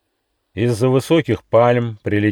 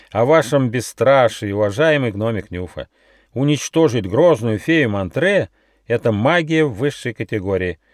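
put-on sly old fox; 7 semitones higher, 4 dB louder than usual. A narrator's reading. The grand inquisitor fox speaks.

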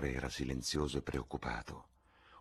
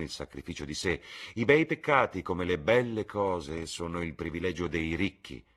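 lightly voiced lord, lively and emphatic; witty Lord Henry; 3 semitones higher, 5 dB louder than usual. Lord answers the painter on the price of sins, lightly animated. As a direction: launch into a quip, louder on the key words.

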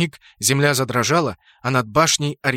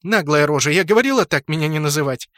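grimacing annoyance; 3 dB louder than usual. Acted. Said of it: "скривилась Сцилла".

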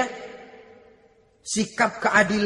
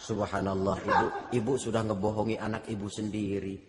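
lower, softer sorrowful rebuke; 10 semitones lower, 10 dB quieter than usual. Retold or imitated. Umar softly chiding the mother who lied, quiet. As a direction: gently chide her.

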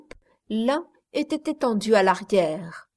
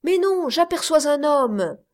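excited correction; 6 semitones higher, 4 dB louder than usual. A narrator's reading. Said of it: "répondit un autre".

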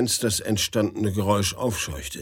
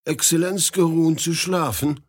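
foolish question; 6 semitones higher than usual. Acted. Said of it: "fragte er ganz dumm".

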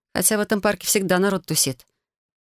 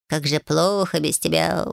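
sighing. A narrator's reading. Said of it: "вздохнул котик".

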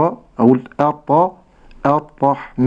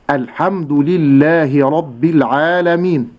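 slow, careful tajweed recitation; model recitation; slower than usual. Shown as a demonstration. Sheikh recites the verse for the listener, slowly. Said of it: "اسمع إلى نطق هاتين الكلمتين".

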